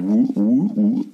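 rising playful "woo" sounds; mock cartoon woo-woo; wavy wooing noise. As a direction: imitate belly waves with repeated woos. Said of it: "make those waves with their stomach".

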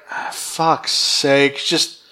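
slow, fed-up sigh of a villain; weary villain. Retold or imitated. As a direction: drag it out like you're done with everything. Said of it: "Divatox is just like".

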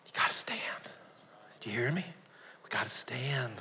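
soft intense urging; hushed exhortation; whispered. Real, not acted. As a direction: lean in and whisper it.

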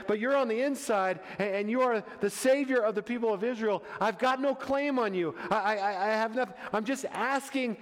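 acted appeal from a desperate mother; desperate plea. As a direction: plead humbly for mercy. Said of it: "And she's desperate".

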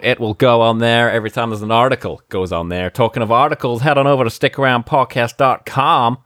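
improvised plug in a mock American presidential accent; spoofed American politician's accent, salesman-like; Trump. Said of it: "do it in a Trump accent".

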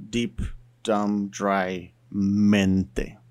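mente said the Spanish way; "mente" as MEN-teh with a tapped Spanish t. Shown as a demonstration. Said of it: "just by adding mente".

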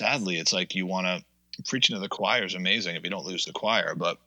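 talking around crunched ice; words round a mouthful of ice. Real, not acted. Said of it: "I'm chewing my ice".

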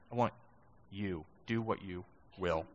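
"you" fading to a near hush; hushed prayer. Real, not acted. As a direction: pray it softly, letting it fade. Quiet repeat of prayer.

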